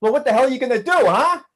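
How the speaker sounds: loud, high challenge to a fight; defiant shout. Acted. David daring the aliens to attack, shouting defiantly. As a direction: bellow a dare at them.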